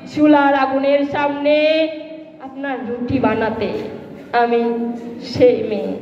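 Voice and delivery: dramatic Bengali verse recital, deliberate pauses between phrases; poem recitation. Acted. Former student reciting a poem in tribute to the principal, dramatic recitation. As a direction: declaim it, rising and falling with each refrain.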